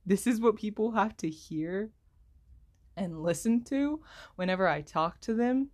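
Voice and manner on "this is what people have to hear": dismayed disbelief. Retold or imitated. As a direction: stretch it out in disbelief. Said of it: "and I'm like".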